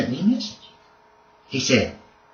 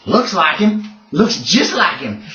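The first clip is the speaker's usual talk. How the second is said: sly outlaw; 3 semitones higher, slower than usual. Acted. GM voices Sutter.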